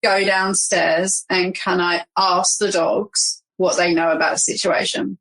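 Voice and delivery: ordinary talk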